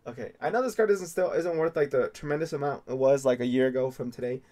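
loud, fast excited talk; excited rush. Real, not acted. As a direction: gush about the card. Excitedly explaining the card.

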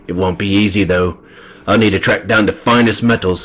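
earnest report to a lord; a hint of a dutiful blacksmith character; lightly voiced loyal craftsman. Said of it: "the voice I gave for him".

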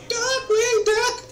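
slow rising announcer call. Pretend. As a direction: call out the show title. Announcing show title.

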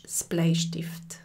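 „das Bleistift“ langsam und gehaucht, „das“ betont; langsam vorgesprochen. Shown as a demonstration. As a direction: den Artikel „das“ flüsternd und gedehnt vorsagen. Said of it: "auf Schweizerdeutsch". („das Bleistift“ leise und langsam vorsprechen)

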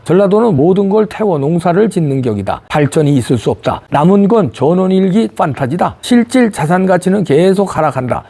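measured, declarative reading of an opinion column; column read-aloud. Acted. Host reading a professor's column to viewers, formal read-aloud. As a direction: read it out in even, written-style sentences.

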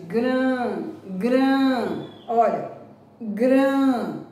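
gran repeated, nasal a held; teacher isolating gran; isolated nasal syllable. Shown as a demonstration. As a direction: hum gran through the nose. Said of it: "tá vibrando o nariz".

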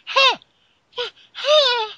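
high-pitched, loud confused huh; a squeaky, lost double take; baffled huh. Retold or imitated. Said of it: "some people are a little bit".

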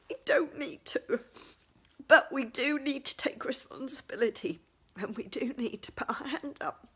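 choked-up, tearful whisper; fighting back real tears; blubbering. Real, not acted. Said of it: "sorry, I thought I'd cleared all this".

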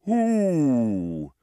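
unbothered hoot; calm owl hoot. Acted. Owl facing a truck, calm hoot. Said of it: "said the owl calmly".

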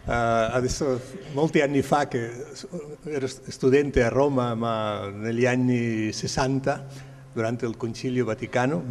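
Italian with a Spanish accent. Real, not acted. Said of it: "scusate il mio italiano che non è del tutto corretto".

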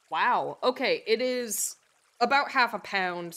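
loud, amazed reaction; genuinely impressed wow; surprised. Real, not acted. Surprised by search result.

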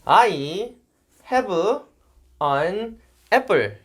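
Korean accent, "I" split in two, "have" as he-beu; halting syllable-by-syllable Korean accent; wrong Korean-accented English. Shown as a demonstration. Jay gives a faulty example for correction, Korean-accented English. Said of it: "I와 have 둘 다 잘못했네요".

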